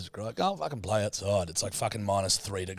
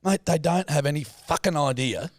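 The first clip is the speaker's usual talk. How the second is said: imitating dad; 5 semitones higher than usual. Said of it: "He goes".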